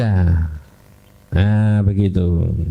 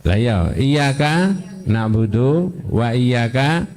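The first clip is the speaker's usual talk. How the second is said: 1 slow recital; 3 semitones lower, slower than usual. Shown as a demonstration. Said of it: "Yang didahulukan?".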